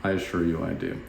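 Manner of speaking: a light playful divine reply; lightly voiced Jesus. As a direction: tease gently with certainty. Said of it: "He's like".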